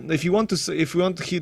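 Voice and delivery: ordinary talk, nothing marked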